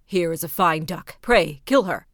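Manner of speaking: loud, brisk command to the cook; servant ordering. A narrator's reading. Servant to the cook, a loud order. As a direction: bark out the order.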